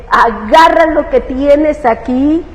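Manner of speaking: high, loud, slow, then fading to a plea; tearful surrender. Retold or imitated. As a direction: give yourself up to God through tears. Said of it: "todo esto llorando".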